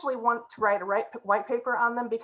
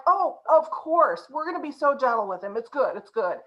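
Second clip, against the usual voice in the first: mock sweet promise; 3 semitones higher, 3 dB louder than usual. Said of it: "And they were like".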